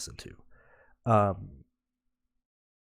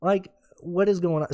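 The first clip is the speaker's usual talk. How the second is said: exasperated outburst; 8 semitones higher than usual. Retold or imitated. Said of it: "And I'm like".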